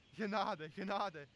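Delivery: hammed-up plea; mock fright. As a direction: beg for mercy in comic panic. Frightened by the two-voiced monster.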